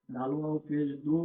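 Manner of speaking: spelling that ends on a long দু; one-alif madd. Shown as a demonstration. Teacher repeating dal and waw for learners, long-drawn দু. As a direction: stretch the vowel of দু for one alif. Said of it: "একালিপ টান দিয়ে পড়তে হবে".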